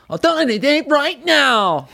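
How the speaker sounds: high, slow, dopey sung mumble; lobotomized singer impression. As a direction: sing it like a dazed, lobotomized guy. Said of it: "doing an impression of someone who had gotten a, a lobotomy".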